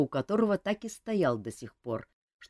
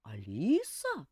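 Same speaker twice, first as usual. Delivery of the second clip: feigned surprise; slower than usual. Acted. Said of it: "притворно удивился".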